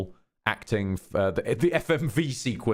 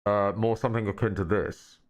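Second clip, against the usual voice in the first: into a hand; 3 semitones lower than usual. Shown as a demonstration. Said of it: "spoken more into our hand".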